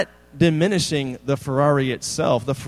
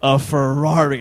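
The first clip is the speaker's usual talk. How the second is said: louder, proud reveal; big reveal; 6 dB louder than usual. Retold or imitated. Dad revealing the Ferrari to his kids, louder. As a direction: drop the answer like a trump card. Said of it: "child's play".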